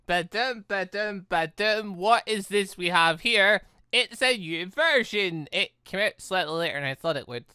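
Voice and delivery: ordinary delivery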